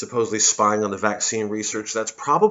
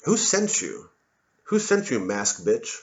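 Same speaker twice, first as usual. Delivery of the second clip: mock accusation; slower than usual. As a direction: fire it off like a paranoid accuser. Acted confrontation with masked person.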